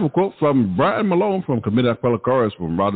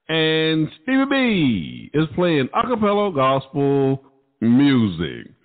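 radio DJ hosting. Acted. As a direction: work the mic like a late-night gospel DJ. DJ hosting his live radio show.

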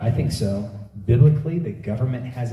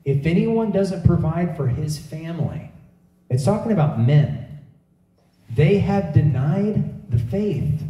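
"they have denied the faith" said slowly, higher; slow weighty scripture reading; emphatic repeat; 5 semitones higher than usual. Real, not acted. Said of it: "Let me say it again".

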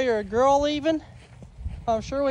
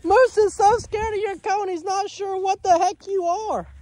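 laughing puppy talk; 7 semitones higher than usual. Real, not acted.

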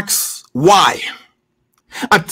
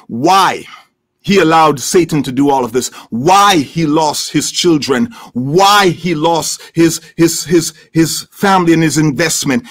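much lower, subdued sermon delivery; grave preaching; 6 semitones lower than usual. Real, not acted. Preacher telling the congregation Job never learned why, grave preaching. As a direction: bring the pitch right down, solemnly. Drops into grave low teaching.

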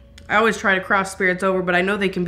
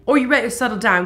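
the same question in a light mock British accent; 2 semitones higher, 3 dB louder, faster than usual. Asking the spirit in a mock British accent. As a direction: put on a playful British lilt for "ready". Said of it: "Sorry for the accent".

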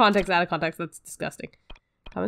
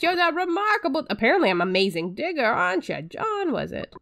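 put-on slightly higher lisping old doctor, slowed; lightly voiced quack doctor, lisping; a hint of a lisping doctor greeting the hero; character with a lisp; 7 semitones higher than usual.

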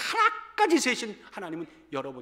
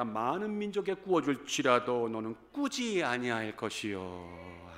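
scripture reading; 5 semitones lower than usual. Acted. Reads Deuteronomy verse.

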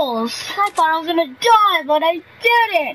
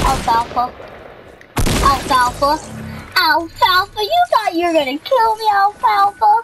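taunting; 4 semitones higher than usual. Real, not acted. Taunting a rival player.

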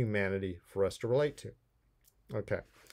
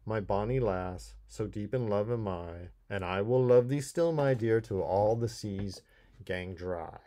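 poem reading; 2 semitones lower than usual. Acted. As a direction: read it like a heartfelt verse. Reads the poem aloud first.

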